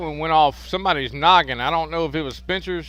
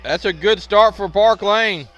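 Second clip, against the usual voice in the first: excited play-by-play; 5 semitones higher, 4 dB louder than usual. Real, not acted. Live call continues.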